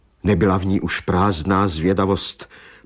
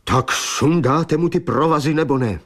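agitated, higher-pitched woman's outcry; rozhořčený výkřik; 5 semitones higher than usual. A narrator's reading. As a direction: cry out impatiently as Maggie. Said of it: "vykřikla Maggie". (rozhořčeně vykřiknout)

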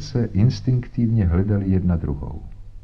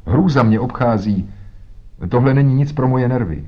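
horrified, nerve-racked outcry; frightened cry; 4 semitones higher, 4 dB louder than usual. Acted. Tadeusz tells the visitors of his dread, frightened cry. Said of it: "křičel".

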